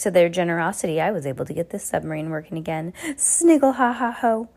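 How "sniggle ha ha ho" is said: slow, high mocking cackle; villain's cackle. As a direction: drag out a gloating villain's laugh. Olaf laughing pun.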